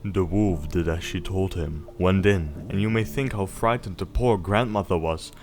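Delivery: gentle storybook reading voice; bedtime story narration. A narrator's reading. Parent reading Little Red Riding Hood to Snowball, storybook voice. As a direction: read it like a bedtime tale. Reads fairy tale to child.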